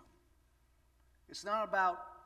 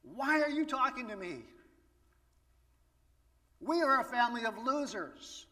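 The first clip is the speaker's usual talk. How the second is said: rising, louder, pleading excuses of a weak man; Gideon pleading; 2 semitones higher, 3 dB louder than usual. Pretend. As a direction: whine that you're the wrong person, building up. Preacher voices Gideon's excuses.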